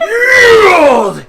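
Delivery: high loud yell through laughter; laughing shout. Acted. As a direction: demand it again, cracking up. Wrestler repeats demand, laughing.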